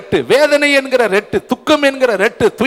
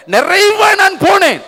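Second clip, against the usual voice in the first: anguished Naomi; 9 semitones higher, slower than usual. Retold or imitated. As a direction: wail out her loss. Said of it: "நகோமி சொல்றாங்க".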